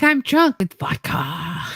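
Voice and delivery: slow, drawn-out drunk slur, mildly played up; lightly imitating yourself drunk on the phone; drunk caller. Telling mom on the phone about the vodka, mock drunk. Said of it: "being like".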